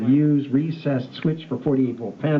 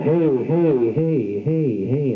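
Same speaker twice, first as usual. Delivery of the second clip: dry and fuzz blend; 3 semitones higher, 3 dB louder, much slower than usual. Shown as a demonstration. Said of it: "the dry sound with the distorted sound".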